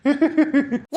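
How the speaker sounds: low, chuckling cackle; cackling laugh. Acted. Husband laughed at over the wife's scolding, cackling laugh. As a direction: cackle away at someone's expense. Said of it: "கெக்க பக்கன்னு சிரிப்பு".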